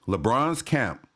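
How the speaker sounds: suppressed laugh finally escaping; trying not to laugh. Real, not acted. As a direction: read it straight, then lose it on the last word. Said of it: "I'm not gonna laugh".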